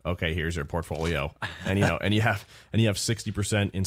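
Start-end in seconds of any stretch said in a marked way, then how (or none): 0.0-1.3 mechanical robot delivery. Retold or imitated. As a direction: speak like a machine. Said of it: "in a robot voice".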